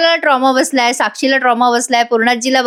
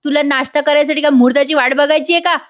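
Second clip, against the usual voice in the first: higher-pitched mock scolding; retold yelling; 5 semitones higher than usual. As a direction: mildly yell an order, pitched up. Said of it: "तिच्यावर ओरडते जोरात".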